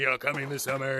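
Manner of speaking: lightly sketched trailer announcer voice; a quick, low-key trailer read; movie trailer announcer. Acted. Voice actor in the studio, mild trailer announcer voice. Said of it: "it was the big movie trailer one".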